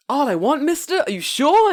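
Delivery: high, loud wide-eyed disbelief; hammed-up incredulous squeal; mock amazement. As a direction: play an awestruck kid asking to be sure. Acts awed customer checking the offer.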